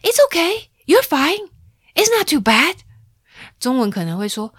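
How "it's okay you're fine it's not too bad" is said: high, loud brisk comforting; grandma loudly brushing off a toddler's bump; loud reassurance. Retold or imitated. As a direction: say it loudly to cut the crying short. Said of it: "她就会很大声的说".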